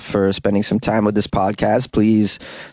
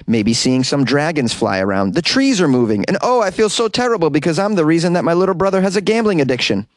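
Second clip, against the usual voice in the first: high, fast hallucinating babble; mock tripping rant; 5 semitones higher than usual. Host acting out a spinach trip, high and rushed. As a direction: play someone tripping on the weed.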